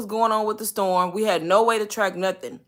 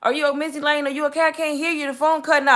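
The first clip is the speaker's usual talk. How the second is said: mocking phone agent; 7 semitones higher than usual. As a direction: parody the agent pretending not to hear. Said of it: "she kept saying".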